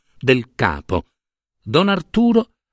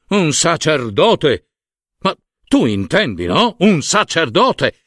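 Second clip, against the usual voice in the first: raised, drawn-out emphasis; scandalized insistence; 2 semitones higher than usual. Acted. Monsignor explaining a priest cannot touch them, scandalized. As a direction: stretch it out, appalled at the very idea. Monsignor justifies his horror of bills.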